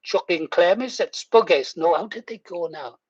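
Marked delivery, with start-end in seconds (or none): 0.0-1.8 retold Geordie phrase; Geordie accent. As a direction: say it in broad Geordie. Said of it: "I was going".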